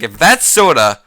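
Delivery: retold dare. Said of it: "He's like".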